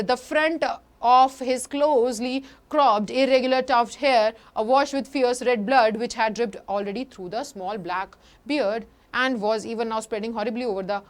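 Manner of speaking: slow, careful reading of the English passage; slow text reading. Shown as a demonstration. Teacher reading the book passage to students, slow reading. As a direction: read each word out for the class.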